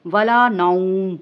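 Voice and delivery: "نوم" ended with a silent final consonant, no nunation; stop on naum. Shown as a demonstration. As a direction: cut "ولا نوم" short on a sukun, slowly. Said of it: "اس کو ساکن کر دیا، جزم دے دیا".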